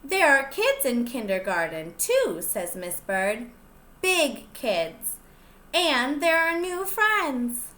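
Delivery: lively storybook reading; picture book read-aloud voice; reading to children. Acted. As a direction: read it out to the little ones, bright and clear. Teacher reads picture book aloud.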